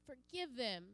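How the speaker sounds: tender plea. Acted. Jesus prays forgiveness from cross.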